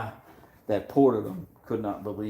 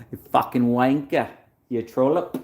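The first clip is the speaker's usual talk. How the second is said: mock insult; 4 semitones higher, 7 dB louder than usual. Retelling insulting an Australian.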